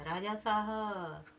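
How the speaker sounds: slow, loud call across the court; shouting loudly. Acted. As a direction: bellow the king's name for all to hear. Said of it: "खूब जोर चिल्ला करके बोला".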